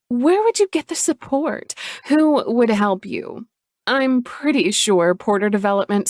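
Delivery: smug and cold; nasty Chloe. Acted.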